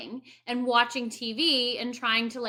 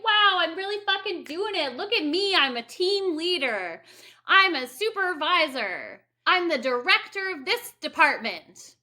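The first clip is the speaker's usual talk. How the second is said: higher, proud showing-off voice; mock bragging; 4 semitones higher, 3 dB louder than usual. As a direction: puff up like you're showing off your titles. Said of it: "where you're like".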